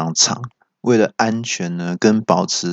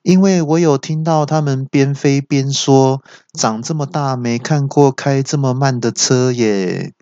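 slow, evenly paced machine reply; mock car GPS voice; 5 semitones higher than usual. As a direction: answer like a smug navigator. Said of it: "那导航就回说".

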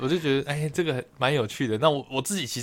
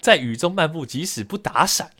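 reading an example. Shown as a demonstration. Podcaster reads a dictionary example to co-host, measured recitation. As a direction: recite it phrase by phrase, with pauses. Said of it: "我来念一下它的例句".

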